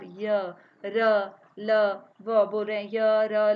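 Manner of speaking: gentle low letter drill; light letters. Shown as a demonstration. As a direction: let य र ल व out with little force. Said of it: "अल्प शक्ति".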